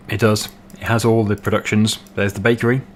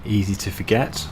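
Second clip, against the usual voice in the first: driving instructor voice. Acted. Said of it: "trying to talk like a driving instructor".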